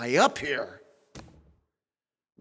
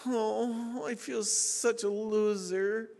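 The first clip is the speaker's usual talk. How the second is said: slow, soft mock lament; sarcastic self-pity; 4 semitones higher, 5 dB quieter, slower than usual. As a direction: pretend to be crushed, dripping sarcasm. Mocking reply to the charismatic.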